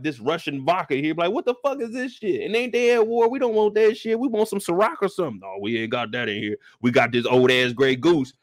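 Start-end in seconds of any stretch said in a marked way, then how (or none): 1.3-5.4 higher, indignant customer; mock-outraged at the vodka; lightly voiced indignant guy; offended customer. Customer complaining at bar. 5.4-8.3 lower, prim bartender voice; deadpan low bartender; mock polite bartender, low. Bartender again.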